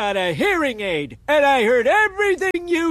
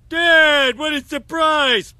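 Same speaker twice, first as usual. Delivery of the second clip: fake cheer; 3 semitones higher, 3 dB louder, slower than usual. Family fakes delight at Grandpa.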